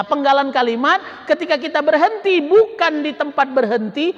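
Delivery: ordinary talk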